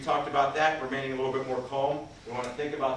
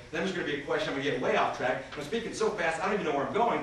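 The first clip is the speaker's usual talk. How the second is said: rushed speech demo; faster than usual. Shown as a demonstration. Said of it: "If I'm speaking too fast".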